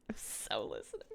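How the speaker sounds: low, soft muttered aside; hushed aside. Acted. Streamer replying to chat, hushed and low. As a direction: murmur it under your breath. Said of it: "I too like saying".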